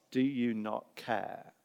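soft and slow, almost to oneself; quiet plea. Acted. All of us asking God facing death, softly pleading. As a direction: ask it gently, from fragility.

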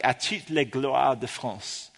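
slow, careful attempt at French; imperfect French accent. Shown as a demonstration. Tourist quoting the sign at Versailles, imperfect French accent. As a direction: read it haltingly in an English speaker's French accent. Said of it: "I can't pronounce this in the right accent".

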